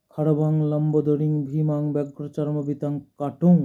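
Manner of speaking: even, sustained Sanskrit chant; mantra recitation. Acted. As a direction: recite in one steady, near-monotone flow.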